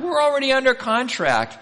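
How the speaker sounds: mock the doubter's excuse; preacher mimicking doubting listeners; mock objection.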